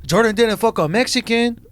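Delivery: cracking up over his own joke; laughing. Real, not acted. Crude joke, loud laughing.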